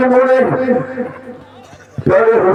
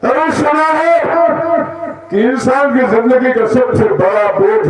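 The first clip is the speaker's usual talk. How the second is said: raised, grief-stricken pleading; anguished confession; 4 semitones higher than usual. Acted. Guilty man begging Shiva's forgiveness, anguished confession. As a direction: plead in anguish, pitched higher.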